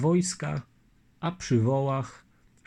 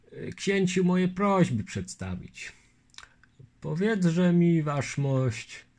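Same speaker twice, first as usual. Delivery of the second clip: raised, mild character voice; a hint of the polite Lithuanian; Litwin's voice; 5 semitones higher than usual. Longinus asking the lieutenant his name, lightly voiced.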